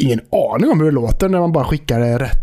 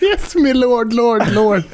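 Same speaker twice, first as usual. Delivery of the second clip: high, hammed-up toff voice; over-the-top British English; mock posh British; 7 semitones higher, slower than usual. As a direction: join the joke as a snooty lord. Echoing the posh parody.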